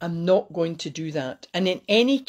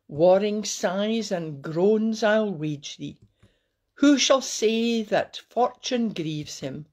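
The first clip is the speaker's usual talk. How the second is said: poem recital. Acted.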